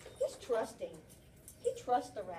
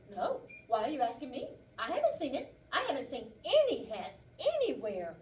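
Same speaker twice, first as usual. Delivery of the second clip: louder, protesting rabbit; defensive rabbit; 6 dB louder than usual. Acted. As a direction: deny it too hard, guilty. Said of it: "how he says it".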